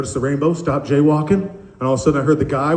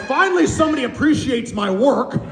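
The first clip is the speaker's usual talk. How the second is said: proudly appreciated; 9 semitones higher than usual. Acted. Acting proud seal trainer.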